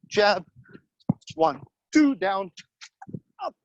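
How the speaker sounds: punchy coach calling out punches; boxing coach calling combos. Acted. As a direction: call each punch short and sharp, on the beat.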